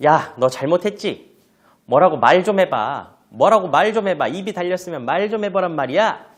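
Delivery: loud, high, insistent demands; acted telling-off, pressing for an answer; scolding parent. Parent demands that child explain the wrongdoing, scolding. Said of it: "야단을 치고 있는 상황에서 자녀에게".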